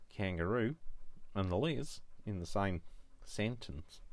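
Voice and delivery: put-on amateur Australian accent with lifted endings. Crafter showing viewers how Liz sounds, mock Australian accent. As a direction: put on a rough Australian twang. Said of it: "I've got an Australian accent".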